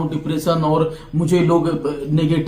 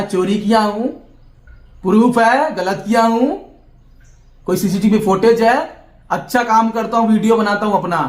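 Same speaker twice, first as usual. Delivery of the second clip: raised, higher voice, daring the critics; defiant outburst; 4 semitones higher than usual. Real, not acted. Vlogger answering critics on live camera, defiant raised voice. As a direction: throw it back at the accusers, heated.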